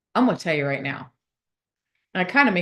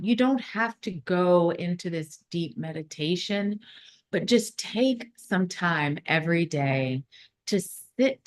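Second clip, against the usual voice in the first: slow, deliberate instruction with long pauses; guided meditation; slower than usual. Acted. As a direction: ease them into stillness, drawing out the words. Leads into a guided visualization.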